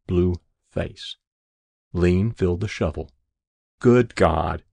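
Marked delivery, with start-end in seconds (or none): 3.8-4.6 cried out. Acted. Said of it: "he cried to the adjutant".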